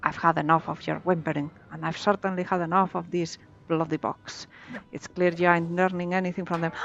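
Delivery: lightly voiced pirate accent, gruff; mild pirate accent taunting. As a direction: read it like a sea pirate, a hint only. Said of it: "Love that pirate accent".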